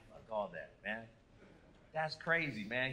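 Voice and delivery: mock quiet grumble; muttered aside. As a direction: grumble it under your breath. Retold private reaction, muttered.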